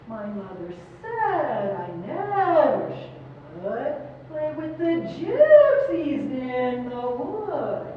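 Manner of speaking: slow, stressing never and gypsies; spoken with stress. Shown as a demonstration. Choir director demonstrating word stress, slow and deliberate. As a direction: lean into the important words, slowly. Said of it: "Can you just say it like that? Just the words".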